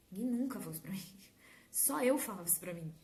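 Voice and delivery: whispered aside. Shown as a demonstration. Repeats line, then whispers it.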